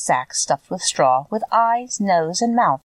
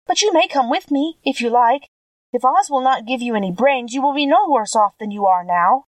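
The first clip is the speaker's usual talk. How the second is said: lightly voiced, higher-pitched girl; kindly little girl; 6 semitones higher than usual. A narrator's reading. Girl invites the scarecrow along, lightly voiced and kindly. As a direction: invite him along in a lifted girlish voice.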